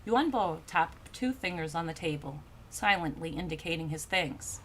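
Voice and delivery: low, soft, measured storyteller; composed literary narration; story narration. A narrator's reading. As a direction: read the tale calmly, settling at phrase ends.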